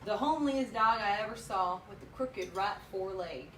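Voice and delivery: steady poem reading voice; cowboy poetry. Acted. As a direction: read the verse at an even pace. Reads the cowboy poem aloud.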